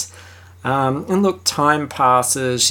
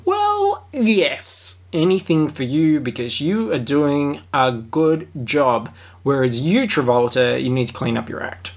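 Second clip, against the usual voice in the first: lightly voiced director. Acted director voice.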